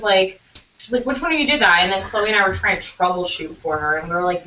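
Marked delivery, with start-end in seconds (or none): 1.0-1.8 mad. Retold or imitated. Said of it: "She was so mad".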